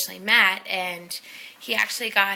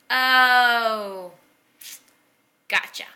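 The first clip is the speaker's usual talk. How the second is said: realisation; 4 semitones higher, 8 dB louder, much slower than usual. Retold or imitated. Realising what the nickname means.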